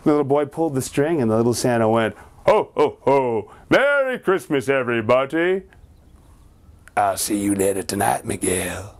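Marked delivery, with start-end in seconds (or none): 2.5-8.9 sinister doll. Acted. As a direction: promise a visit that chills. Evil doll speaks menacingly.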